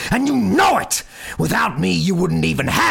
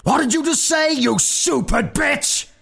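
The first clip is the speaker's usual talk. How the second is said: louder still, higher furious roar; bellowing; 8 dB louder than usual. A narrator's reading. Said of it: "his father bellowed".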